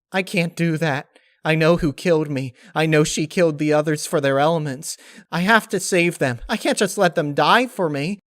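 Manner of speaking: high tearful plea; tearful insistence. Acted. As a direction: hold back tears as you refuse. Pinkie insists, tearing up.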